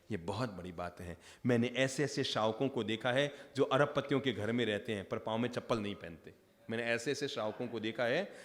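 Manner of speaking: low, soft sermon delivery; earnest preaching. Real, not acted. Preacher teaching the congregation about renunciation amid wealth, low earnest preaching.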